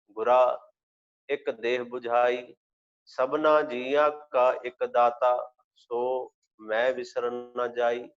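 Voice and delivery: measured, devotional reading of gurbani; slow scripture recitation. Acted. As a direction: recite each phrase slowly and reverently.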